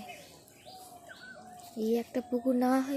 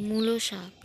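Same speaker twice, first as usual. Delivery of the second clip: whispering; 5 dB louder than usual. Real, not acted. Whispered answer.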